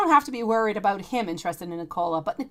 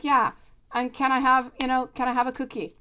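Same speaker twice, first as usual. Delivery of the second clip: put-on little boy's request; 4 semitones higher, 4 dB louder than usual. Son asks for a cookie.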